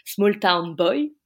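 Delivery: French-accented English title, slow; bad English accent. Shown as a demonstration. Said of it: "j'ai un accent anglais déplorable".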